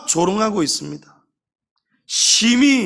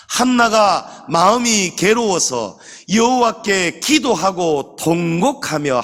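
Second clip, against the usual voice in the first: 성경 봉독; slower than usual. Real, not acted. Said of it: "우리 다 같이 읽어보겠습니다".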